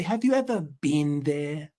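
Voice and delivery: lightly imitated English fan; mock English challenge; mock English accent. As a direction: put on a slight English accent. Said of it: "They're just gonna say".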